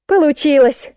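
high-pitched success cry; triumphant report. A narrator's reading. Musenka reports to narrator that it worked, triumphant. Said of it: "отрапортовала Мусенька".

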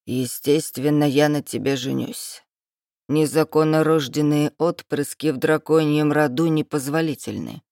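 haughty lord. Acted. Dragon lord's lines.

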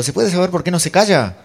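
high, loud acted indignation; mock an irate moviegoer's challenge; indignant retort. Espectador contesta en una riña. (réplica indignada, aguda y fuerte)

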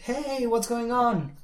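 high, loud, drawn-out hello; hammed-up cheery greeting; acted friendly greeting. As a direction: greet a long-unseen friend with gusto. Teacher acts out an enthusiastic greeting.

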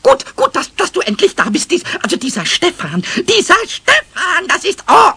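aufgeregt stotternd, höher einsetzend; empört. Acted. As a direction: sprudelt vor Empörung über. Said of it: "mit allen Anzeichen hellster Empörung". (Pumuckl empört sich beim Meister über Stefan, aufgeregt)

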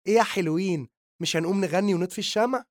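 high, loud, fast call to the couple; breaking in on the pair, brightly; cheery call. A narrator's reading. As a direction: hostess calling the couple to the cake, high and loud. Party host calls couple over.

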